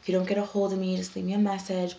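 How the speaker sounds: a patient signing off a voicemail, sweetly; super nice. Retold or imitated. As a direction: lay the friendliness on thick. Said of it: "Super nice".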